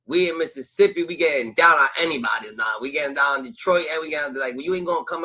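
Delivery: loud, rowdy hype voice, half acting; mock defiant shout. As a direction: yell it like backing your cousin up. Acting out a loyal cousin's stance.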